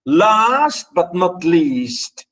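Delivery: "Last but not least" very slowly, L sounds held; stressed L sound. Shown as a demonstration. Teacher repeating the example for students, slow L demonstration. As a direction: draw out "Last" to show its L. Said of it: "here the L sound".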